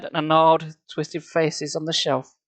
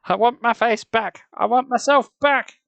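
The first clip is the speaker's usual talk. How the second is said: high, loud slow raging shriek; 9 semitones higher, 5 dB louder than usual. Acted. Pounding his chest with fists.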